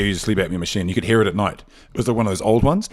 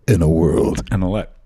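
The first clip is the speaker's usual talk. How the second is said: trailer voice; 3 dB louder than usual. Shown as a demonstration. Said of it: "How is that again".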